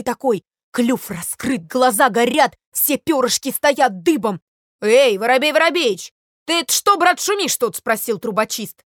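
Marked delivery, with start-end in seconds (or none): 4.8-7.8 loud, rising hail; raised-voice questioning shout; calling out. Acted. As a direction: call over to a rowdy friend. Chimney sweep hails a noisy sparrow.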